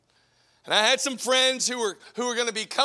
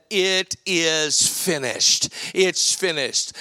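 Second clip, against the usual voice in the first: Jesus's words; 6 semitones lower, much slower than usual. Retold or imitated. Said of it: "He said".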